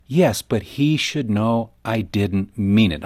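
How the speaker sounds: slow, drawn-out mock excuse; defensive wife. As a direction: play the wife brushing it off, slowly. Quoting a mother's excuse.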